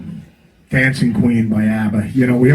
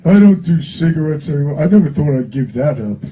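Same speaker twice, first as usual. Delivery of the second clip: higher, louder mock singer voice; a hint of a singer, higher and louder; imitating a singer; 3 semitones higher, 3 dB louder than usual. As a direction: do a light impression of a singer confessing. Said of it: "he goes".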